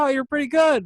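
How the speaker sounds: imitated praise, very high and loud; retold compliment. Musician praising the young opening singer, imitated compliment.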